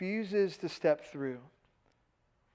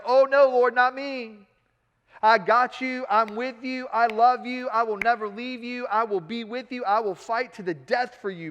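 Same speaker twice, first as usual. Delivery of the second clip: louder, higher, eager vow of loyalty; eager protest; 4 semitones higher, 5 dB louder than usual. Retold or imitated. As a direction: insist you'd never leave him, almost too eager.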